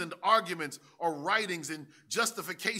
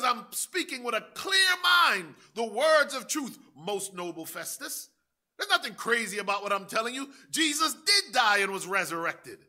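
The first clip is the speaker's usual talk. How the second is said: louder and higher, proclaiming with fire; fervent preaching shout; 5 semitones higher, 7 dB louder than usual. Acted. Preacher voicing Paul to Festus, rising into a shout. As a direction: hammer it home to the congregation.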